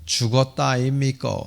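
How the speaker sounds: lightly imitated Gyeongsang accent; a touch of southeastern Korean Gyeongsang dialect. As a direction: say it as Gyeongsang locals would. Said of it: "경상도 사람들은".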